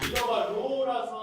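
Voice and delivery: voice changer. Acted. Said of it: "음성 변조 됐나요?".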